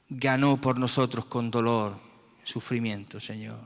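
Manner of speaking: earnest spoken prayer, calling on God after each phrase; fervent prayer. Real, not acted. Leading the congregation in prayer, earnest and pleading. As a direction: pray with your whole heart, pleading.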